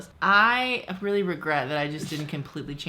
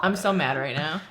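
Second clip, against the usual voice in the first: deadpan mad. Retold or imitated. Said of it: "just in that tone".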